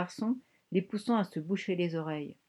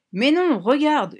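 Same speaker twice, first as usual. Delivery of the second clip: high, drawn-out excited howl; ululating cry; 8 semitones higher, 8 dB louder, slower than usual. A narrator's reading. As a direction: hoot it out loud, stretching the vowels. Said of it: "ulula le jeune homme". (cri ululé, aigu et traînant)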